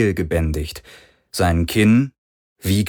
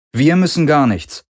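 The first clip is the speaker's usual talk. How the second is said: cool; 7 semitones higher, 4 dB louder than usual. A narrator's reading. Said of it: "Kirais Stimme war kühl".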